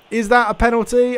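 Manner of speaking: can't believe the ref gave it; incredulous question. Real, not acted. Player protesting the penalty against him, incredulous.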